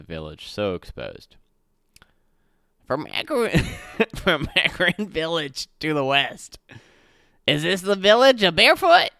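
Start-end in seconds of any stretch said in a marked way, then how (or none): 2.8-3.6 high and far from own voice, a small gnome. Acted. Gnome artificer answering the gate guard in a high gnome voice. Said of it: "I switched my voice too many times". 3.7-4.1 laugh. Real, not acted. Breaks character laughing. 4.2-9.1 high, loud gnome voice breaking into laughter; gnome voice, laughing. Acted. Gnome answering the guard, high-pitched and laughing. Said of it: "I switched my voice too many times".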